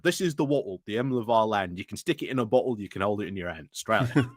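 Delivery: lightly put-on Australian recital; mock Australian accent. Reciting a joke national anthem in mock Australian accent.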